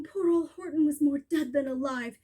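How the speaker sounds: usual speaking voice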